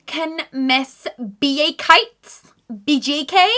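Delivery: high, slow announcer voice; lightly voiced office announcer. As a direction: page her like a school office.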